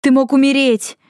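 high, loud cry on the verge of tears; near-tearful outburst. A narrator's reading. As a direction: snap at him, almost crying. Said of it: "прикрикнула Тора, чуть не плача".

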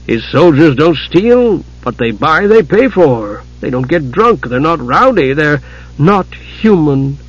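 slow, bitter ending, dragging not human; bitterly. Acted. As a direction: spit out the last words slowly. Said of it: "Tika finished bitterly".

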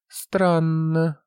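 high, stretched, puzzled word; drawn out. A narrator's reading. Operator sees no signal, puzzled drawl. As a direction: draw it out in a high, wondering tone. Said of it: "протянула она".

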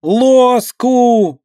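put-on high, loud toddler wail; howling child. A narrator's reading. A toddler howling at her sister over the dropped spoon. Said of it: "истошно взревела Марьяшка".

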